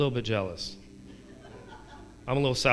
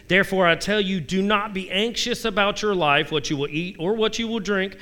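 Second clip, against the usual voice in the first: raised, earnest Bible reading; preacher reading a psalm; scripture reading; 3 semitones higher than usual. Acted. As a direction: proclaim the psalm.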